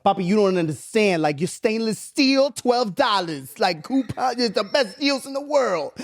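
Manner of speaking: a hint of an excited mom selling coupons; imitating mom. Mom voiced in story.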